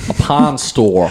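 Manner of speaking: A pawn store drawn out slowly, each word separate; slow careful pawn store. Shown as a demonstration. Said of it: "make it not sound crazy".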